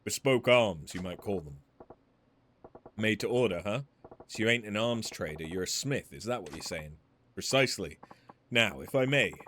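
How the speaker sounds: lightly voiced courteous weapons smith; a measured, polite merchant pitching his trade; refined shopkeeper. Polite weapons smith explaining his business to Majima, lightly voiced.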